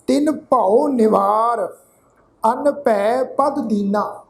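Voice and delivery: ਛੁਟਤ ਪ੍ਰਵਾਹ repeated slowly and evenly; slow teaching repeat; repeat recitation. Shown as a demonstration. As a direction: say the verse again for the class to follow. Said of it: "ਇੱਕ ਵਾਰ ਫਿਰ ਤੋਂ ਪਾਠ ਉਚਾਰਨ ਕਰ ਰਹੇ ਹਾਂ ਜੀ, ਫਿਰ ਤੋਂ ਸੁਣੋ".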